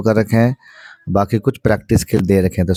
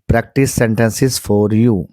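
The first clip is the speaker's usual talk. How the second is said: very slow; much slower than usual. Shown as a demonstration. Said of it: "teacher models phrase".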